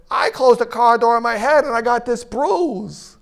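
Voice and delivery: slightly high, sheepish small voice; deflated Bob. Retold or imitated. Bob's bruise outdone by the dead uncle, in a meek small voice. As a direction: admit it meekly. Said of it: "And Bob goes".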